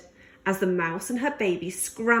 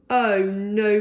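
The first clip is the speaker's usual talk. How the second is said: mild cry of dismay; 4 dB louder than usual. Acted. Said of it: "cried George".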